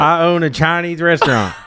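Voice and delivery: high-pitched put-on Chinese accent; mock Chinese accent. Comedian plays restaurant owner for friend, high mock Chinese accent. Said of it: "Do the accent".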